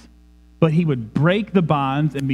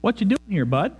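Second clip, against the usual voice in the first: casual greeting; 4 semitones higher, faster than usual. Acted. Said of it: "This is not a".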